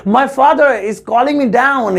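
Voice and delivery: slow, deliberate teacher model sentence; slow careful English. Shown as a demonstration. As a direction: spell it out slowly for students. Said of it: "तो English होगी".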